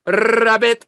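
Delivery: "rabbit" with a long Latino rolled R, high and loud; Latino accent. Retold or imitated. Latino classmate practising R rabbit, loud rolled-R accent. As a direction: trill the R hard in a mock Latino accent. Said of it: "she's Latino".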